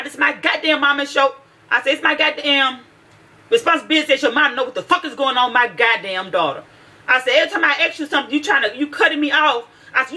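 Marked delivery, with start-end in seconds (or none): 0.0-6.6 angry scolding. Retold or imitated. Retold angry rant to daughter. 7.4-9.6 angry scolding. Retold or imitated.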